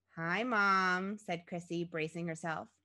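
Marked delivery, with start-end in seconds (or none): none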